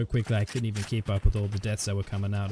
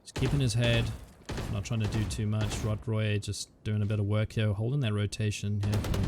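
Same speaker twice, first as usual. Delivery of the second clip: esports caster. Real, not acted. Live play-by-play commentary.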